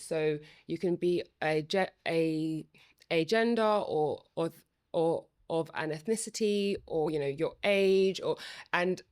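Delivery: stammering and restarting words; real stutter, repeated starts. Real, not acted. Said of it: "my stutter is going all over the place".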